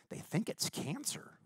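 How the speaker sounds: hushed whisper, pitch up. Retold or imitated. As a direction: say it like grave news. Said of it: "he goes".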